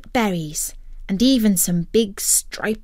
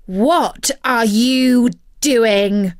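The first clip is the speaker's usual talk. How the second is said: slow, louder angry demand; 3 semitones higher, 6 dB louder, much slower than usual. Acted. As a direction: catch him in the act. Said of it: "came an angry voice from below".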